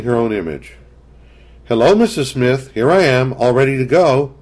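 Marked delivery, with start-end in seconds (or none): 1.6-4.3 higher, lightly voiced eager little girl; a small girl cheerfully greeting her friend; child Kathy. A narrator's reading.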